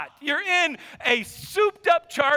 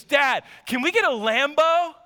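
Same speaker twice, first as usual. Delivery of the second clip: put-on eager kid; 2 semitones higher than usual. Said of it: "And Canaan goes".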